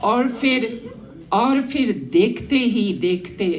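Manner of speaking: measured verse recitation with pauses between phrases; declaimed Hindi poem; poetry recital. Acted. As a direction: recite to a gathering, lifting repeated lines. Recites her own poem.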